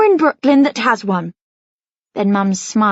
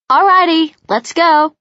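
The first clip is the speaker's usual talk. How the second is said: bursting in; 8 semitones higher, 5 dB louder than usual. A narrator's reading. Noah bursts in, cutting thought.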